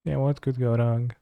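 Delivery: soft, muttered repeat; quiet. Real, not acted. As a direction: say it under your breath. Sarcastic line then quiet repeat.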